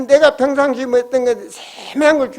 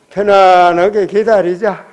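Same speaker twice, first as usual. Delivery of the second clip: slow, relaxed reassurance; calm waiting; 3 semitones lower, 4 dB louder, slower than usual. Shown as a demonstration. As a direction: settle in and wait, slowly.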